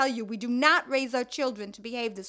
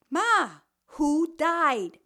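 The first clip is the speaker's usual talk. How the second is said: raised, pressing question; insistent daughter; 3 semitones higher, 5 dB louder, much slower than usual. Acted. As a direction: push the question louder, insisting. Daughter repeats, louder.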